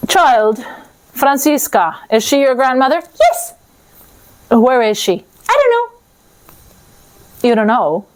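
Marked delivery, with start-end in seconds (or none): 3.2-3.5 put-on much higher child voice; little girl voice. Little girl answering Death, high child voice. 5.5-5.9 put-on much higher child voice; little girl voice. Little girl answering Death, high child voice.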